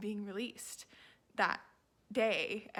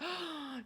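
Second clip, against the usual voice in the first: shocked gasp; 7 semitones higher than usual. Retold or imitated. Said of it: "And she was like".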